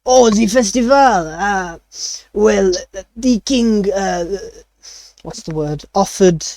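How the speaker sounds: lightly voiced French chef searching for words; a chef fumbling for the Common word, French accent. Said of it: "he still speaks in a French accent".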